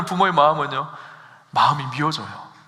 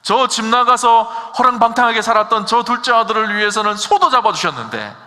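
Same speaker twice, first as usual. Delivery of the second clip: loud, aggrieved protest from the elder son; the elder son protests to his father, loud and aggrieved; resentful complaint; 6 semitones higher, 6 dB louder than usual. Acted. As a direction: demand it like a wronged son. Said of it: "이렇게 묻잖아요".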